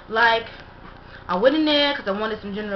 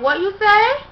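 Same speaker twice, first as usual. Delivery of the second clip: mock worker's reply; 10 semitones higher, 6 dB louder than usual. Restaurant worker answers the customer.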